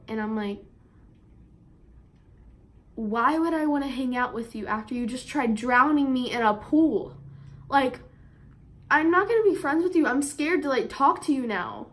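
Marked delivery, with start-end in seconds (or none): 3.0-11.9 indignant. Retold or imitated. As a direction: scoff at the apology. Indignant reply to apology card.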